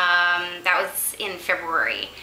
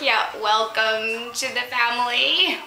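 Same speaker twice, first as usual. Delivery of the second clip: teasing welcome; 4 semitones higher than usual. Retold or imitated. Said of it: "And we're like".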